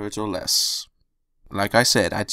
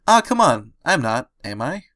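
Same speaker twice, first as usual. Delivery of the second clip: whiny protest; 3 semitones higher than usual. Acted. Pinkie protesting.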